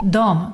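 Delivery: "dom" with o in place of e; spoken form. Shown as a demonstration. Teacher showing everyday Swedish, "dom" for "dem". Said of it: "Most people would just say".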